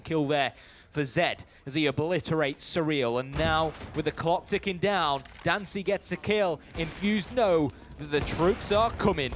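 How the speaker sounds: lively match caster; live play-by-play. Real, not acted. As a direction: call the kills as they happen, building energy.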